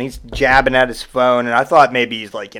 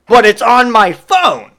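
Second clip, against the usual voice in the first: much higher, louder and slow; whiny protest; 9 semitones higher, 7 dB louder, slower than usual. Retold or imitated. Customer protests to the clerk, high petulant whine.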